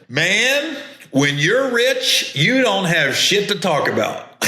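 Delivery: high, slow put-on Duval voice, stretching the words; imitating Duval. Comic retelling Duval's joke about rich men, high slow impression. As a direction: ham up Duval ribbing two rich friends. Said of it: "And Duval said".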